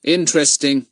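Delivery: understated boredom. A narrator's reading. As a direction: feign polite lack of interest. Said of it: "said Fatty in a bored voice".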